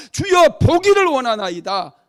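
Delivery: high, very loud cry of longing; acted beggar crying out to his Lord; fervent plea. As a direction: beg aloud with full force.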